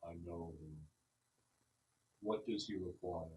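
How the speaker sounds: tree asking what the woodsman needs; grave tree spirit. Acted. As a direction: murmur it from deep in the trunk. Tree asks the bear.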